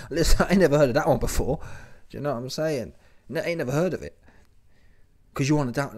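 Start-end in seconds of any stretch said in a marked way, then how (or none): 0.1-1.6 louder and quicker, pressing the point; emphatic disbelief. Real, not acted. Repeating his disbelief to viewers with louder, faster insistence. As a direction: insist you've never heard of it, louder and faster.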